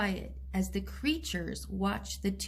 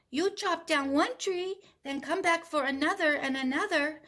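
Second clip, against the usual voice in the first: monkeys scolding the sleeping man; chattering monkeys; 4 semitones higher than usual. Acted. Monkeys voice in story.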